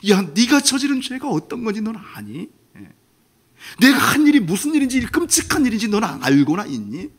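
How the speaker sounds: high, stricken voice near tears; a father's heart sinking as he asks; shocked father. Acted. Father confronting his sinning son, stricken and tearful. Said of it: "아빠가 막 너무 놀라서 가슴이 철렁 내려앉아가지고".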